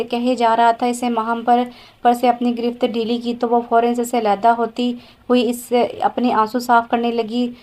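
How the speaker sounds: plain reading voice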